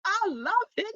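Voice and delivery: very high then hushed; blissful sigh. Retold or imitated. Imitating her new self enjoying being served, blissfully. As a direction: melt into contentment. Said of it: "But now I'm like".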